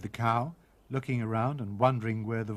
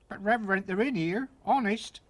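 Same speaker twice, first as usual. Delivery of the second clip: pleading cook; 8 semitones higher than usual. Acted.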